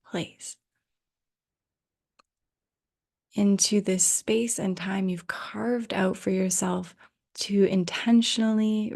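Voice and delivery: unhurried guiding voice with long pauses; guided meditation. Real, not acted. Yoga teacher settling listeners in for Yoga Nidra, guided meditation. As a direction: ease listeners into rest, leaving space between phrases. Leads into guided rest practice.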